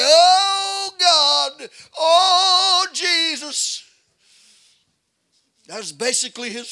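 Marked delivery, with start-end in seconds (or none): 0.1-3.8 high, drawn-out mocking moan of a prayer; mock the old pastor's groaning prayer; mock wailing prayer. Mockers imitating pastor's prayer on the rock, high drawn-out wail. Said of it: "Why you just lay around and say".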